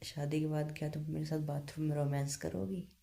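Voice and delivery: normal talking voice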